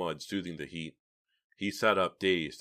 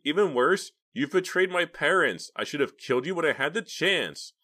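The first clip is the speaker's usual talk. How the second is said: furious shout; 10 semitones higher, 7 dB louder than usual. A narrator's reading. Justine shouting at her uncle, furious. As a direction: hurl it at him.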